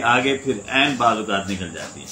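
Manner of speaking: ordinary talk, nothing marked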